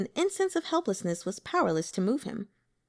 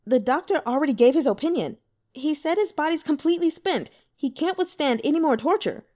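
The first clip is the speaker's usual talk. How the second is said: fast, higher, urgent pleading; anxious rushed objection, pitched up; hurried; 6 semitones higher, 4 dB louder, faster than usual. Acted. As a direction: rush it out to stop him. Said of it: "He hurried to say".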